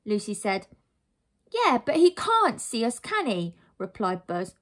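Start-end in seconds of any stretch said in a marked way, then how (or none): 1.5-3.6 high, loud retort; cheeky boy. Acted. Boy retorts that dad cannot see, cheeky voice. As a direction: answer back like a defiant child.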